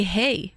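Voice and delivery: "hey." said as a tag in place of eh; casual West Coast "hey."; plain, light "hey." tag. Shown as a demonstration. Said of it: "they say".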